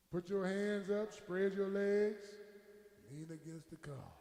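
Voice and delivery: slow, drawn-out arrest command; low, unhurried cop orders; policeman's order. Retold or imitated. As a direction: stretch out each command like an officer mid-arrest.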